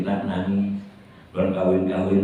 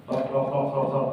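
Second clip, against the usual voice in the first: imitated knocking; 4 semitones higher, 3 dB quieter than usual. Imitates knocking at his door.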